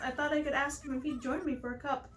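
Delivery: slightly high, scheming-sweet character voice; Pelly character, hopeful. Acted. Player reading Pelly's plan to ask Pete out, lightly voiced and hopeful.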